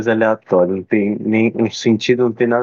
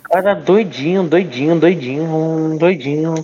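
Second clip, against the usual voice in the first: high teasing voice; 5 semitones higher than usual. Pretend.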